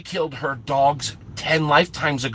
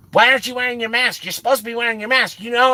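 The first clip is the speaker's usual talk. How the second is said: high, fast, rapid-fire nagging; imitated scolding; 8 semitones higher, much faster than usual. Imitating the angry customer scolding him about his mask, high and fast. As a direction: rattle it off like an irate shopper. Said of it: "she ripped into me for everything".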